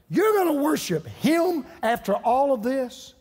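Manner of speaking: high, impassioned preaching climb, pressing every line; preaching at full force. Acted. Pastor urging the congregation to stay in church, impassioned preaching. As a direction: lift the room, pleading and urgent.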